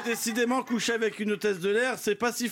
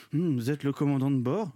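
languorous voice; 6 semitones lower than usual. Acted. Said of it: "d'une voix langoureuse".

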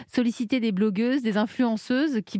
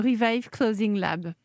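English accent; slower than usual. Real, not acted. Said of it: "Vous avez un bon accent anglais aussi".

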